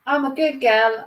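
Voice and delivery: tentative, lightly put-on Cockney; Eliza Doolittle. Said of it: "if I can do a proper Londoner".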